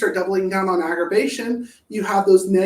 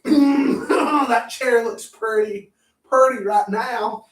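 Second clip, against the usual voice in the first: tempted inner voice; 3 semitones higher, slower than usual. Pretend. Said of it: "catch yourself going".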